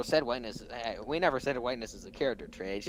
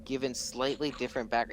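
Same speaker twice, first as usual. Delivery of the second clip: quick reread. Shown as a demonstration. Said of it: "let me read it, reread this".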